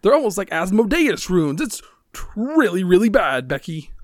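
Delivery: high, loud fretful character voice; alarmed game character. Acted. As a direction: panic out loud in a high pitched voice.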